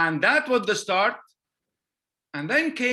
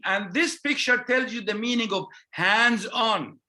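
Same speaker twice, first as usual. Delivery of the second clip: usual speaking voice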